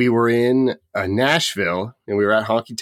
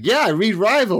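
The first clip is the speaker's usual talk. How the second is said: imitating the TV guy; 11 semitones higher than usual. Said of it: "And he's like".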